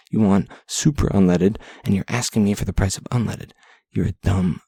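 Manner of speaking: exasperated retort. Retold or imitated. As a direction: tell off a clueless customer. Retorting to a rude customer.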